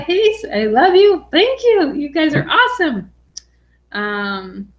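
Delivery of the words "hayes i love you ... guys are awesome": high, loud gushing thanks; excited thanks. Real, not acted. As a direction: pour out delighted gratitude. Thanking a supportive viewer.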